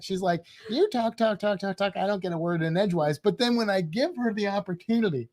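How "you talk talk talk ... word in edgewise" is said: imitating a wife's complaint, quick and repetitive; mock complaining. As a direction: rattle off a light mock grievance. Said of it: "She always complains".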